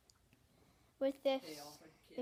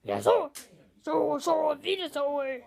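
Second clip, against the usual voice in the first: repeated loud, higher creature calls; easy Venusaur sound; 4 semitones higher, 9 dB louder than usual. Shown as a demonstration. Kid doing his easy Venusaur for viewers, loud repeated calls. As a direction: chant the name in bright bursts. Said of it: "this is my easy sound of Venusaur".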